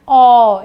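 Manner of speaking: loud, wide-open ओ; showing how the mouth opens for औ. Shown as a demonstration. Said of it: "इस तरीके से हमारा मुंह जो है इसमें खुला होता है".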